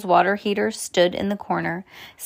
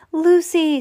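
shouted name, high and loud; yell; 10 semitones higher, 6 dB louder than usual. A narrator's reading. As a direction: call out to her urgently. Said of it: "Sam yelled".

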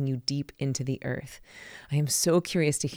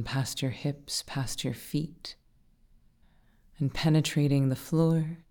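guided meditation. Acted. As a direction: guide them gently down into calm, breath by breath.

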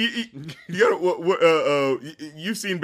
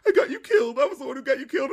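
much higher, half-laughing guilty cry; mock guilty Rocket; 9 semitones higher, faster than usual. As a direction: play Rocket's guilt, high and jokey. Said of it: "where it's like".

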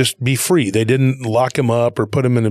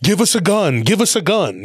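higher-pitched mock panicky pleading; urgent plea, pitched up, acted lightly; retold panic; 7 semitones higher than usual. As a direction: imitate frantic soldiers begging. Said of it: "got real panicky and freaked out".

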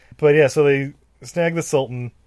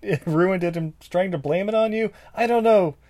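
Jasmine voice; 7 semitones higher than usual. Acted. Voicing fake Jasmine.

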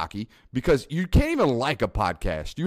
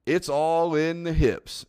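"all in the hips" stretched slow and raised; drawn-out coach line; 6 semitones higher, slower than usual. Retold or imitated. Quoting the golf coach's tip, "all" drawn out high.

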